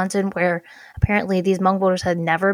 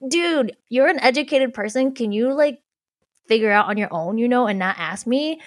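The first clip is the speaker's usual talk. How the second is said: retold exasperated plea, slightly raised pitch; mildly fed up, talking back to friends; annoyed; 3 semitones higher than usual. Venting at friends who ask for help, mildly annoyed. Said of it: "I got so annoyed".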